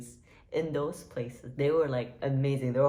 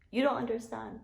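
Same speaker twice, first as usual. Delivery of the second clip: higher-pitched, pretend-tearful plea; mock-tearful protest; 6 semitones higher than usual. Vlogger pleading with viewers who dismiss Taco Bell, mock-tearful protest. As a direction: insist in a high, mock-upset voice. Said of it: "I'm about to cry up in here".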